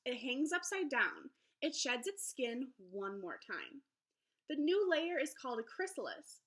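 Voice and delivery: lively, sing-song picture book read-aloud; reading to children. Acted. Teacher reading a butterfly book to her class, lively storybook voice. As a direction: read it brightly to young listeners.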